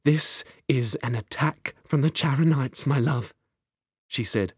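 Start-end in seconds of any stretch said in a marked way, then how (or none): 0.0-3.3 softer, tender plea; gently reach him after the quarrel; softened. Acted. Queen softening to Finnegan, quiet and tender. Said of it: "the Queen's expression soften".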